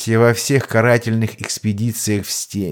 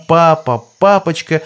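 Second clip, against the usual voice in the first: excited cry; 7 semitones higher, 4 dB louder than usual. A narrator's reading. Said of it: "с криком".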